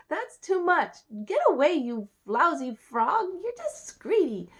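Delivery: loud, high acted indignation; acted outraged scolding; scolding princess.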